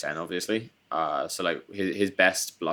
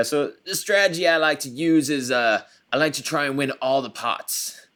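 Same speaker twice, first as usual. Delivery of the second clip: bad, weak put-on Texas accent, pitched up; 8 semitones higher, 5 dB louder than usual. Mocking an old poker strategy book's author, doing a bad Doyle Brunson Texas accent. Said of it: "That was a not a very good Texas accent".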